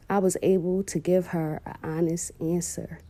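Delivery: hushed, choked-up admission; barely holding it together, real emotion; emotional. Real, not acted. Mother tearing up while telling the audience about her daughter, hushed. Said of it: "I'm sorry I'm getting emotional".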